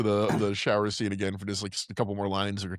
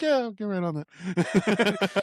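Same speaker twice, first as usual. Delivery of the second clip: sarcastic brush-off; 8 semitones higher, much slower than usual. Retold or imitated.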